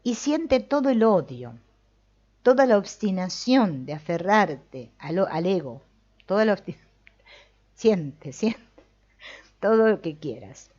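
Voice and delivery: loud urging to feel all the hatred. Shown as a demonstration. Teacher urging students loudly to feel hatred. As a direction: push it out loud. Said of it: "Sigue adelante".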